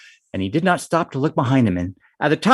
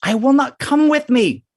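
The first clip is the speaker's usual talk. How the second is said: high, loud boastful fox; high cocky fox; 10 semitones higher, 3 dB louder than usual. Acted. Fox boasting, much higher.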